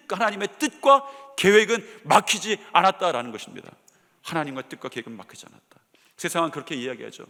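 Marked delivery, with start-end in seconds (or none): 0.1-3.7 louder proclamation with stress on 뜻과; emphatic declaration. Shown as a demonstration. Preacher proclaiming God's plan is unblocked, loud and emphatic. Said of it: "repeats the declaration". 4.2-5.8 softer, lower repetition of 하나님과 뜻과 계획은 막히지 않았다; quiet echo. Shown as a demonstration. Preacher echoing his own proclamation softly to the congregation. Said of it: "repeats the declaration quietly".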